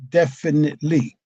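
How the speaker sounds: "Definitely" said firmly, syllable by syllable; firm emphasis. Shown as a demonstration. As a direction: stress "Definitely" with measured, deliberate weight. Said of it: "is very firm".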